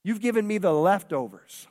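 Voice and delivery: lightly voiced, firm rebuke from above; God gently scolding the stingy; a hint of God rebuking. God answering those asking for increase, a mild firm rebuke. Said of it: "and he's saying".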